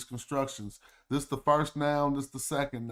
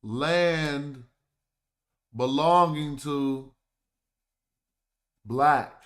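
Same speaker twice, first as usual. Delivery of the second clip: Land, belonging to, black, each set apart with pauses and a louder last word; 5 dB louder, much slower than usual. Shown as a demonstration. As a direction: spell out the meaning word by word, landing hard on "black". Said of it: "Ta ni Kemet is what?".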